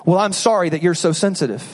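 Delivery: smug, dismissive sorry; bad apology. Shown as a demonstration. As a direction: say sorry while blaming them. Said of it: "here's what a bad apology sounds like".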